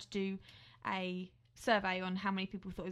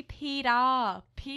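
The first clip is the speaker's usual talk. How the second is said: put-on Hunger Games accent; 4 semitones higher, 6 dB louder, slower than usual. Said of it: "they say it really weirdly".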